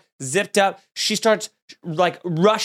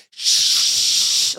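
shush. Retold or imitated. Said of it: "double shush".

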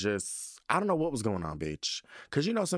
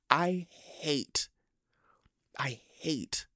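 breathy hushed whisper; 4 dB quieter, much slower than usual. Real, not acted. Ranting to viewers, suddenly whispered. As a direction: drop to a secret whisper.

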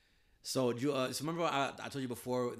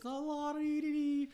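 high, light la-dee-dee; mock carefree singsong; slower than usual. Mocking men who stroll the block, carefree singsong. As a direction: breeze through it without a care. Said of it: "just, you know, like".

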